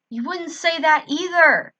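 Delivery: suspicious. A narrator's reading. Suspicious confronting.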